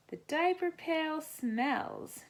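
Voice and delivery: high, slow drawn-out complaint; disgusted. A narrator's reading. Olivia complaining about the smell in Rachel's room, disgusted. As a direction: wrinkle your nose at it.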